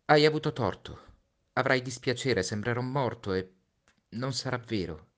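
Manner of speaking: put-on a boy bracing his friend for his death; Little Prince, pleading. Little Prince voiced in story. (Piccolo Principe, voce acuta e accorata)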